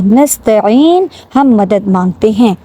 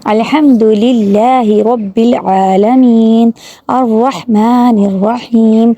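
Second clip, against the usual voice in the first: slow, drawn-out Quran recitation; measured tajweed reading; much slower than usual. Shown as a demonstration. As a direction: recite each word slowly and carefully. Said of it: "recites Fatiha slowly to teach".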